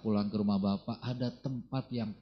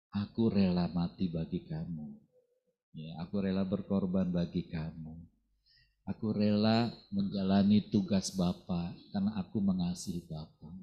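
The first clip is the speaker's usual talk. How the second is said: gentle willing Jesus; 5 semitones lower than usual. Retold or imitated. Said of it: "dia dengan rela loh".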